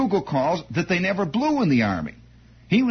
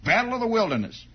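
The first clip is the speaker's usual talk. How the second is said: boastful bugler; 3 semitones higher than usual. Retold or imitated. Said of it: "He would say".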